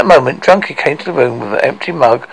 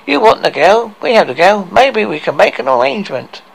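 lightly voiced dwarf, pitched higher; scheming dwarf; 7 semitones higher than usual. Dwarf offering Hercules a bargain, scheming. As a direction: dangle the deal in a raised voice.

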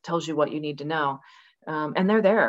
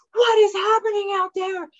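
voicing the dogs; 4 dB louder than usual.

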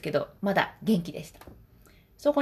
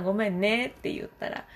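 ordinary talk

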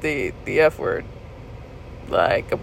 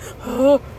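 sharp audible breath; acted-out shaken gasp; 5 semitones higher than usual. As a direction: gasp as if just set free. Acts out relief when unbuckled.

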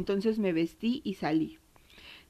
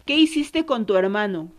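a louder, shaken demand at her daughter; angry demand; 6 dB louder than usual. Retold or imitated. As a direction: confront her hard, voice raised. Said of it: "la agarré y la sacudí y le dije".

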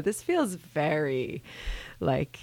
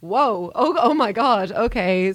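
high, louder laughing disbelief; pitched-up whoa of disbelief; mock shocked laugh; 5 semitones higher, 4 dB louder, slower than usual. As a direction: gasp it out, laughing and stunned. Shocked reaction to the joke.

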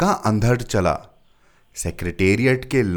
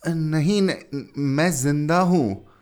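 strained, slow groaning plea; groaning with difficulty; 7 semitones higher, slower than usual. A narrator's reading. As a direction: push the words out in pain. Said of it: "बमुश्किल कराहते हुए कहा".

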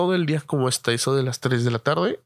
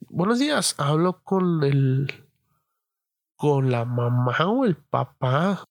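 mom on the phone; slower than usual. Retold or imitated. Imitating friend's mother on phone.

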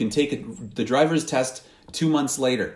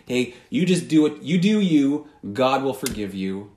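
tempting voice. Retold or imitated. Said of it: "that voice has said to you".

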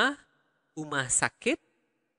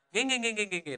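overdone repetition; 6 semitones higher, much faster than usual. Shown as a demonstration. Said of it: "That's, like, too much".

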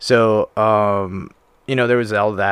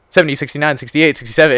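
higher, louder barked countdown; drill instructor countdown; 5 semitones higher, 6 dB louder, faster than usual. Retold or imitated. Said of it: "And they're like".

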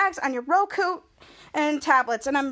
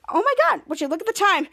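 higher exclaim, a hammed-up gasp of alarm; mock surprise; 5 semitones higher than usual. The vlogger fakes being late for the next segment. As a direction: pretend to notice the clock.

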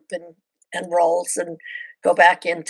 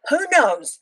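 whisper; 8 semitones higher than usual. Real, not acted. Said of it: "unvoiced whisper".

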